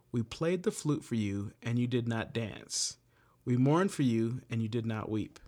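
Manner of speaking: measured, earnest scripture reading. Acted. Leader reading Bible verses to the group, measured and earnest. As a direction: read the verse to the group with gravity.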